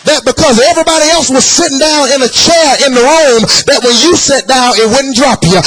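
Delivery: sing-song whooping preacher cadence; preaching at full force. Acted. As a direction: chant it to the church, rising. Sermon climax, chanting to congregation.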